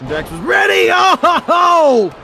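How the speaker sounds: high, loud hype call; excited commentator shout. Real, not acted. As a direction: yell the counter. Counter move in the match.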